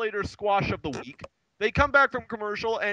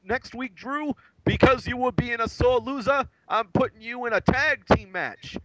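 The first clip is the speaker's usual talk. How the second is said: pompous GM announcement; 6 semitones higher than usual. Retold or imitated. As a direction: announce it like a blustering boss. Voicing Teddy Long announcing match.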